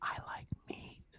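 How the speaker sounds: very quiet, breathy whisper. Prompted again by the other speaker to whisper a creepy-sounding phrase, whispering. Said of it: "Say that, Drag".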